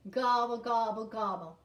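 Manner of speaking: loud, chanted turkey call; turkey gobble. Shown as a demonstration. Teacher shows children the turkey's part, loud chanted gobbles. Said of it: "Can you do that with me?".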